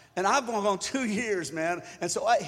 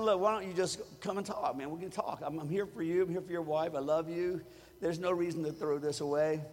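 soft, gentle plea to a friend; coaxing him to come and talk, softly; gentle pleading; 3 semitones lower, 5 dB quieter than usual. Retold or imitated. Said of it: "I kept saying".

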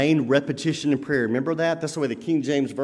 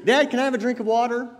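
put-on child's request; 7 semitones higher, faster than usual. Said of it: "He would say".

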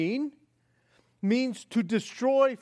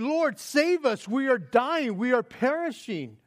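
mild panic; 3 semitones higher than usual. Acted. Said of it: "in this panic".

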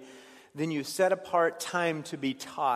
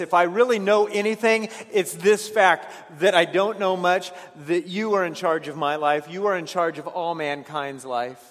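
forceful proclamation; 2 semitones higher, 6 dB louder than usual. Acted. Preaching Jeremiah's words forcefully.

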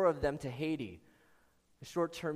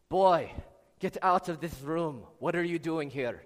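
mock Russian accent; 4 dB louder than usual. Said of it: "my Scottish is better than my Germ-, my, uh, Russian".

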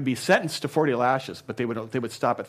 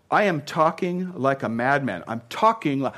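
going nuts; 2 semitones higher, 4 dB louder than usual. Acted. Preacher voices Paul boasting to the church, starting to rant. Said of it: "He's going kinda nuts here".

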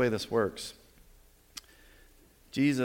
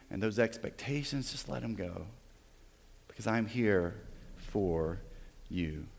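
tender Jesus; 2 semitones lower, 4 dB quieter than usual. Acted. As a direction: speak to them softly as Jesus. Voices Jesus tenderly to church.

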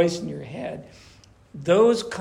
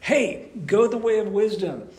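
calling out in the market; 4 semitones higher, 5 dB louder than usual. Retold or imitated. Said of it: "Or she's down in the market".

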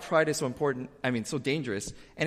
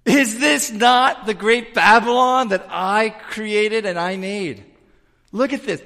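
much higher and louder proud bragging; boastful Nebuchadnezzar; 7 semitones higher, 8 dB louder than usual. Retold or imitated. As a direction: crow over your great city from the palace roof. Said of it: "and he says".

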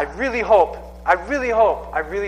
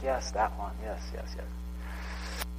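soft, slow, whispered admission; sheepish whisper; 8 semitones lower, 15 dB quieter, much slower than usual. Retold or imitated. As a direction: whisper it, embarrassed to own it. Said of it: "And it's like".

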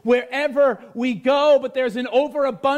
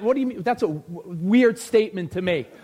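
imitated listener; 7 semitones lower than usual. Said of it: "some of you are looking at".

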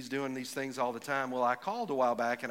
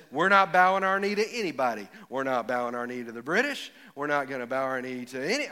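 mock-defiant national declaration; 4 dB louder than usual. A country saying it won't bow, defiant. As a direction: proclaim it as a proud refusal to yield. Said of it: "that says".

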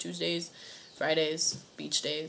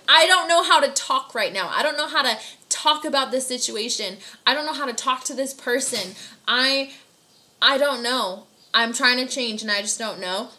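hammed-up "I don't know" frustration; mock exasperation; 3 semitones higher, 4 dB louder than usual. Someone stuck on what to say, venting in mock frustration. Confused person pouring out feelings.

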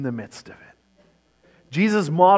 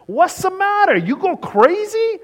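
put-on sharp, much higher, louder Italian-accented demand; 6 dB louder than usual. Father sharply demanding if his wife has gone crazy, in a loud high Italian accent. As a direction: bark it like a startled Italian papa. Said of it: "he sharply demanded in a great Italian accent".

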